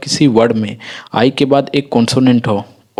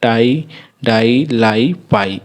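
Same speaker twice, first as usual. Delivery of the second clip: slow example words; much slower than usual. Shown as a demonstration. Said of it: "फिर next हमारा".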